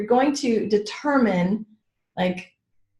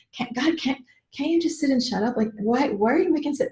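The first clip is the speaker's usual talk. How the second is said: high, exasperated mock scolding; a hint of a fed-up partner; 5 semitones higher, 3 dB quieter than usual. Imitating a partner scolding her for a scene, exasperated. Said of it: "imitating being told off".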